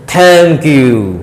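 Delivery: loud blunt thank you; mock rude thanks; curt thank you. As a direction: throw it out bluntly. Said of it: "कुछ लोग बोल देते थे".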